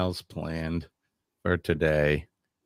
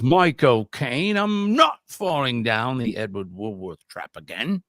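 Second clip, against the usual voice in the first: put-on British accent. Host reads a viewer's game answer, put-on British accent. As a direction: read it out in a playful British accent. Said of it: "You liked my accent?".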